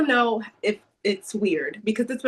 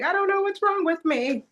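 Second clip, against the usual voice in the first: higher, bewildered exasperation; exasperated self-quote; 11 semitones higher than usual. Retold or imitated. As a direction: throw up your hands at yourself. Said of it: "And I'm like".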